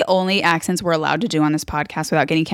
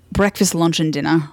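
loosely attempted Irish accent; half-butchered Irish accent; Colin Farrell. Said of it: "I'm gonna butcher it, but he's like".

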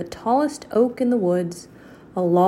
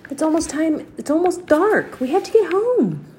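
calling out; 8 semitones higher than usual. Acted. Jack calls after his sister.

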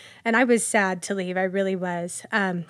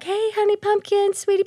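put-on deep Southern accent; 13 semitones higher, 4 dB louder than usual. Grocery store lady greeting a regular with pet names, deep Southern accent. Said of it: "real deep Southern accent".

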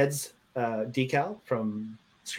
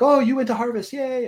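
high-pitched, louder mock enthusiasm; gushing mock cheer, pitched way up; imitating excited fans; 11 semitones higher, 4 dB louder than usual. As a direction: put on an over-eager festival fan. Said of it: "they're like".

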